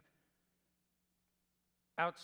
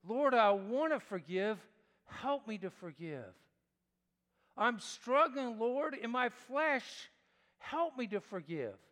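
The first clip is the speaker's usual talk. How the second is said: pleading prayer; 4 semitones higher, 6 dB louder than usual. Retold or imitated. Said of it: "I'll say to you what I say to myself".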